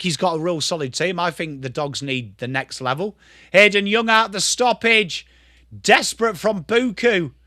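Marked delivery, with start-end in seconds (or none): 3.5-7.3 animated footy commentary; live play-by-play. Real, not acted. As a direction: call the play with energy and a lifted pitch.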